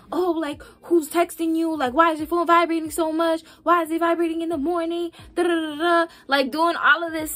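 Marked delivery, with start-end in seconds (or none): 0.1-6.1 suspicious partner. Retold or imitated. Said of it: "they're always suspecting".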